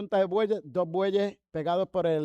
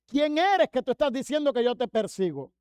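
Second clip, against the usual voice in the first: higher, mildly agitated challenge; startled challenge; 4 semitones higher than usual. Retold or imitated. Blinded Saulo challenges the unseen voice, mildly startled protest. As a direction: question it in protest, pitch raised.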